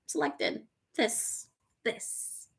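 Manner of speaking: hushed, savouring whisper. Real, not acted. Host savouring a viewer's "I am selected", whispering. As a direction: whisper each word on its own, letting it land.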